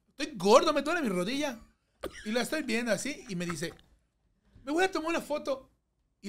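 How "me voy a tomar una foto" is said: higher, lightly voiced fiancée; fiancée's reply. Fiancée answering the kneeling groom. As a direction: say it with casual surprise.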